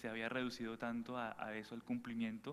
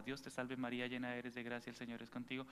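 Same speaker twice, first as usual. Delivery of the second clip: praying grandmother; 4 dB quieter than usual. Retold or imitated. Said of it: "una abuelita que empezaba".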